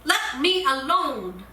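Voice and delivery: mock yelled plea; yelled protest. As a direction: yell out to make it stop. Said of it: "I yelled out".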